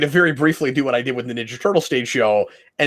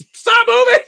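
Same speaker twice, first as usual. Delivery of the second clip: high, strained yell at a wriggling puppet; hammed-up frantic reprimand; mock scolding; 5 dB louder than usual. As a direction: snap it in exasperation, pitched way up. Acts out choking the flailing Saba.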